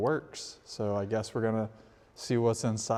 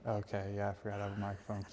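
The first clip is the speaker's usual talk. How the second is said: much softer, toned down; quieter; 4 semitones lower, 9 dB quieter, faster than usual. Real, not acted. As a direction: pull it way back. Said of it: "Why are you yelling?".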